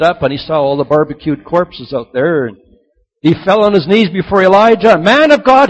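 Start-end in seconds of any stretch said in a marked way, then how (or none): 5.0-5.7 loud, high cry of pleading; begging. A narrator's reading. Captain on his knees begging Elijah, loud pleading. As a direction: call out to him in desperate appeal. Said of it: "he begged".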